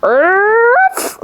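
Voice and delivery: high yapping bark; playful puppy yap; dog bark. Retold or imitated. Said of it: "She's like".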